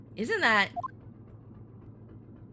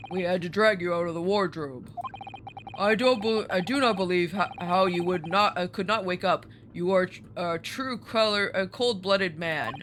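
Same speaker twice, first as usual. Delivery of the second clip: accusing sailor with a put-on Russian accent; 3 semitones lower than usual. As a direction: attempt a heavy Russian accent. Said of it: "a Russian accent, but we'll try it".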